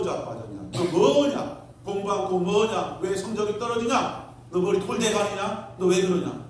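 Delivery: retold fatherly reprimand, moderately forceful; scolding father. Father berating son over falling grades, mock scolding. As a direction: fire off rebuking questions as an imitated father. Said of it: "그러면서 질책하니까".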